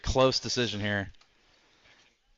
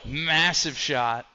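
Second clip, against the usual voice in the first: excited; 4 semitones higher, 5 dB louder, much slower than usual. Real, not acted. Big hit in fight.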